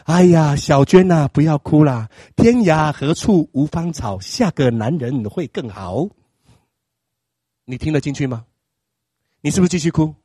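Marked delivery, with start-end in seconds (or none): 0.1-6.1 slow, soothing best friend's comfort, lightly voiced; consoling best friend. Best friend comforting crying 小娟, lightly voiced slow soothing. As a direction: coax her gently, taking your time. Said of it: "你的闺蜜就要来跟你说了".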